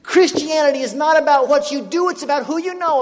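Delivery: eager loud retelling; excited. Retold or imitated. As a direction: shout the discovery. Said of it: "Guess what? Did you know this?".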